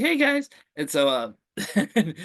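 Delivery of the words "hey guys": high-pitched camp greeting; mock camp voice, higher pitch; stereotypical gay man. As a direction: imitate a camp man saying hello, pitched way up. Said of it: "when you stereotypically think of a gay dude".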